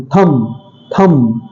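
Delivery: थंब said slowly and low, b barely heard; slow soft demo. Shown as a demonstration. Teacher showing students the faint b in थंब. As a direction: stretch out थंब softly, faint b. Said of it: "हल्का सा sound आता है".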